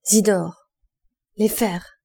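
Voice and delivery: a workman's call to his helper. A narrator's reading. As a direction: shout the name across the roofs. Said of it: "Coupeau jeta son appel".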